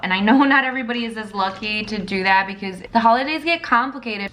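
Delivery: slightly raspy, husky voice. Real, not acted. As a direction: talk through a raspy throat. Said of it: "did you guys notice my raspy voice".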